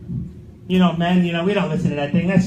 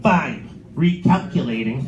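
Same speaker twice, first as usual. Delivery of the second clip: fed-up GPS; 6 semitones lower, much slower than usual. Retold or imitated. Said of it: "she does that final one".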